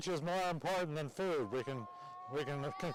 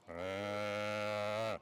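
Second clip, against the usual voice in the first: cow moo; 6 semitones lower than usual. Retold or imitated. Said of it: "how you say food is".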